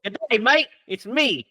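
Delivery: hammed-up Aussie greeting, lightly done; mock Australian. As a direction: tease him with a cheesy Australian accent. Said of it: "Derek's like".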